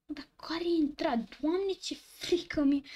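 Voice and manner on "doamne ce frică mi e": slow, hushed, scared whisper; spooked gamer whispering; frightened whisper. Real, not acted. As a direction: breathe it out in fear. Spooked by creepy game.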